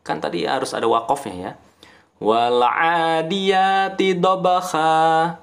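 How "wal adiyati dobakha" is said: slow chant stopping on dobakha with long a; pausal mad iwad. Shown as a demonstration. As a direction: stop at dobakha and hold the a. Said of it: "Kita kan berhenti tuh".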